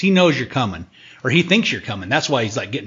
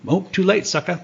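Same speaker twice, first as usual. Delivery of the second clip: gloating taunt; 7 semitones higher than usual. Retold or imitated. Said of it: "It's like".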